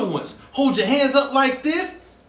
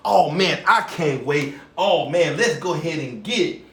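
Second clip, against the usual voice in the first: much lower, rumbling puppet reply; deep puppet voice; 9 semitones lower than usual. Acted. Host voicing a second puppet answering Busy, deep goofy voice. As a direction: drop way down into a big goofy puppet.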